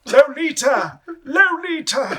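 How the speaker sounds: dramatic drawn-out announcer; mock movie trailer; hammed-up trailer voice. Mimicking film trailer announcer.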